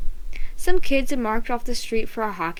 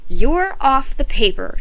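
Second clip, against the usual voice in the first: louder, slow angry verdict; mild mock scream; 3 semitones higher, 6 dB louder, slower than usual. A narrator's reading. Tasha kicks Ricky off paper, angry shout. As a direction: hammer it down like a ruling. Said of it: "Tasha screamed".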